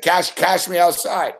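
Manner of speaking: put-on slow quoting the viral Cash me outside girl; meme catchphrase. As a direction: drawl it like the meme.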